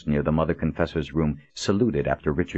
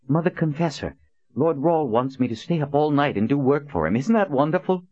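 excited; 11 semitones higher than usual. Acted. Verdine, breathless and beaming.

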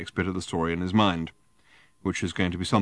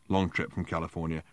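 muttered; 3 semitones lower, 6 dB quieter than usual. Acted. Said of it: "muttered one of his friends".

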